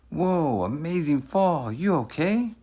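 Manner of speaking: high, excited bystander calling out; impressed onlookers. Acted. Passersby watching the boy fall, calling out excitedly. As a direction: marvel at the tumble, then check on him.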